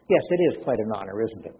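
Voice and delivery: understated dry reply, imitated. Retelling Arthur's answer to asteroid news, very dry. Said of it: "he said very dryly".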